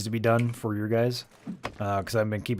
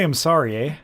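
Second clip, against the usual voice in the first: louder, playful Canadian "sorry, eh"; mock Canadian sorry; 3 semitones higher, 5 dB louder than usual. Shown as a demonstration. Friend prompting the Canadian to say it, mock Canadian accent. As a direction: lean on "sorry" with a Canadian lilt. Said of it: "just say".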